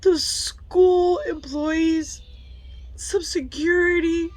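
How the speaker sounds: slow, tearful, halting; crying. Real, not acted. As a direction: push each word through the tears. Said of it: "I'm tearing up".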